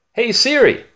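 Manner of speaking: usual speaking voice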